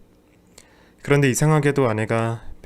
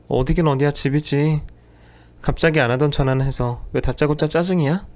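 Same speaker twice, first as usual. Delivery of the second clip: irritated wife; 3 semitones higher than usual. Acted. Wife on the phone, annoyed at husband's sudden call. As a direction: snap back at the call.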